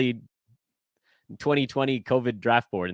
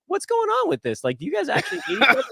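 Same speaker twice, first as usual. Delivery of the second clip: much higher, fast, fretful fan voice; worried fan; faster than usual. Retold or imitated. Imitating a fan worried the hosts hate each other, high and fast. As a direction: rattle it off like an anxious listener.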